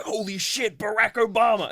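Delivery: high, loud mock astonishment; hammed-up starstruck shout; starstruck exclamation. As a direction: play a guard blurting at a celebrity. Guard sees Obama, acted.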